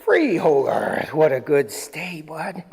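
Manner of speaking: drawn-out release melting into praise; doting dog praise. Real, not acted. Trainer releasing dog after a stay, doting praise. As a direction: stretch the release word, then coo approval.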